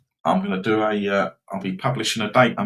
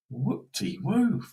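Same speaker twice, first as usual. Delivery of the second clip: sarcastic; 11 semitones higher, much slower than usual. Real, not acted. Sarcasm about Everton's late goal.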